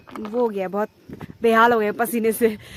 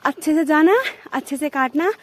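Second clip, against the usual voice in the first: lightly imitated mother, pitched up in a list of reminders; mother's instructions; 4 semitones higher than usual. Daughter retelling her mother's advice before grass-cutting, lightly imitated motherly instructing. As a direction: retell mum's advice a little higher, rising on each instruction. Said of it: "mummy ने बोला कि".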